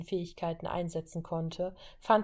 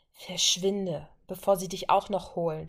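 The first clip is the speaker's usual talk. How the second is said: mild curse. Acted. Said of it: "fluchte Violet".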